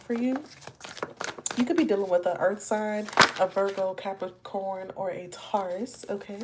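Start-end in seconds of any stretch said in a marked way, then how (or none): 3.9-6.1 CAPRICORN and TAURUS stretched out slowly; odd-sounding words. Real, not acted. Tarot reader listing earth signs, CAPRICORN and TAURUS coming out oddly drawn out. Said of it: "I don't know why my words are coming out like that".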